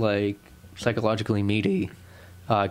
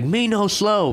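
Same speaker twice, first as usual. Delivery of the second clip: high, dumb brute voice, much higher; mock Hulk grunt of a reply; slow caveman talk; 10 semitones higher, 4 dB louder, slower than usual. Answering the hero back in mock Hulk talk, high. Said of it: "him saying that back to him slow".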